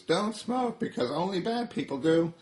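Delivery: a tiny cigarette scolding; high cartoon cigarette; Smoking Cigarette. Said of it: "Smoking Cigarette says".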